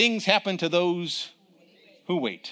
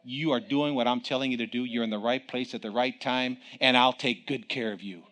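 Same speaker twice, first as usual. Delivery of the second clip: softer, lower, calm reassurance; reassuring God; 5 semitones lower, 5 dB quieter than usual. Retold or imitated. God comforting the preacher in his seat, softly reassuring. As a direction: soothe a frightened child. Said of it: "He said".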